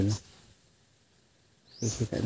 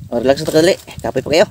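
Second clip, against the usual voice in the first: loud call to someone nearby; 5 semitones higher, 10 dB louder, faster than usual. Real, not acted. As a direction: call out loud across the yard. Calling out to others.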